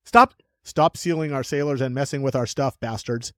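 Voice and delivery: mock redo in an American accent. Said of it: "English accent for Americans?".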